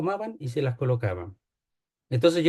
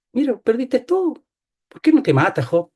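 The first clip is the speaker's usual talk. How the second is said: higher, louder cruel devil voice; devil goading Job; 8 semitones higher, 5 dB louder than usual. Acted. The devil taunting Job to kill himself, high and loud. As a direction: push Job to end it, mocking. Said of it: "A Job".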